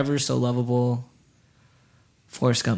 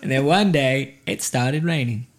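slow, drawn-out storytelling impression; movie monologue imitation; 2 semitones lower, slower than usual. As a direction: recite it slowly like a film character's narration. Reciting Forrest Gump's rain monologue.

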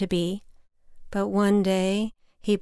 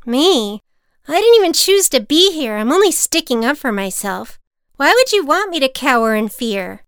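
higher, louder protest; indignant boy; 6 semitones higher, 7 dB louder than usual. A narrator's reading. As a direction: stand up for yourself. Boy defends himself.

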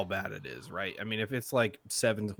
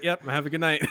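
higher, louder cheery dismissal; mock brush-off; 7 semitones higher, 6 dB louder than usual. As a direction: hurry him out the door with a put-on cheer. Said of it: "he's like".

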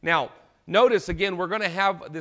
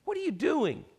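rebuking; 3 semitones higher than usual. Retold or imitated. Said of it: "he rebukes him and says".

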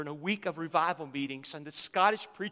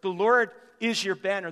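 preaching shout; 6 dB louder than usual. Acted.

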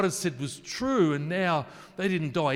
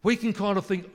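ordinary delivery

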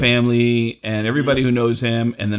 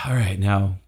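sigh, then a let-down challenge; unimpressed; 3 semitones lower than usual. Retold or imitated. Crowd after a couple minutes of a famous comic, unimpressed. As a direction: sigh and ask, the thrill gone. Crowd's excitement has worn off.

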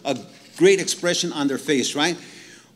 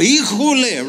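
higher, louder "Híjole" burst out; Mexican exclamation; 6 semitones higher, 7 dB louder than usual. Retold or imitated. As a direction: blurt "Híjole" in amazement. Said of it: "if you're Mexican like me".

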